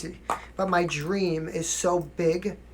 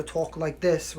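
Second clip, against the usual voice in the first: New York vowel in "talk"; New York accent; much slower than usual. Shown as a demonstration. Actor recalls diction classes, New York accent. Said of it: "'cause I'm from New York".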